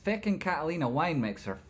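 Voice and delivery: worked-up catchphrase, not yet shouted; hyped catchphrase. Acted. Hyped catchphrase, first take.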